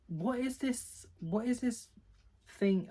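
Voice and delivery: high-pitched exasperated retelling; mock-exasperated reader reaction; irked disbelief. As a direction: act out irked bafflement, pitched well up. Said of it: "This one irked me so much".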